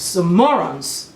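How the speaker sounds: slow Nigerian Igbo-accented "some morons"; drawn out in an Igbo accent. Shown as a demonstration. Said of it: "so I'm using my Igbo accent there".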